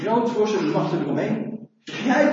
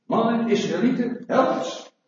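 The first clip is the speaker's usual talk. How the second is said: mild mock shout for help, pitched higher; raised, acted appeal to a crowd; imitated crowd cry; 5 semitones higher, slower than usual. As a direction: call out to the men for help, half-shouted. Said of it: "dan gaan mensen schreeuwen".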